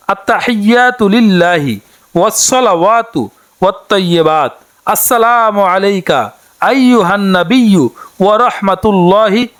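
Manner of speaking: slow, measured Arabic recitation, each word clear; careful recitation. Shown as a demonstration. Teacher showing women the prayer words, slow careful recitation. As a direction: recite it slowly so learners can copy. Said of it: "তাশাহুদটি হচ্ছে".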